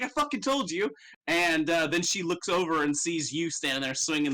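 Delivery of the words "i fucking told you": smug told-you-so. Acted. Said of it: "and he was like".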